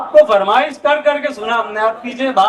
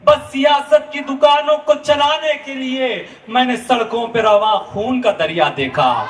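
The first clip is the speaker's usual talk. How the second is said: stately nazm recitation. Acted. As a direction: recite the poem with sorrowful weight. Nazm continued.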